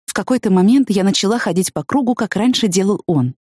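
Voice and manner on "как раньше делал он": plain reading voice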